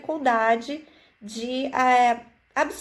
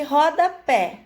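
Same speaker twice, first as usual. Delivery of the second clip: rodapé said slowly; slow sounding out; 3 semitones higher, 4 dB louder, slower than usual. Shown as a demonstration. Teacher to children, sounding out slowly. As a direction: draw out rodapé. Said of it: "enfatizando cada sílaba".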